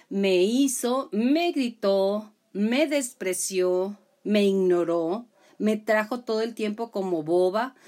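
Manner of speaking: hammed-up wounded whining, slow; self-pitying list. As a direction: drag out each grievance like a victim. Acting out self-pitying victim list.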